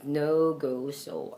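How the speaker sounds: No, go, so with full long vowels. Shown as a demonstration. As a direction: round "oh" in No, go, so. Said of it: "so that you produce the right sound".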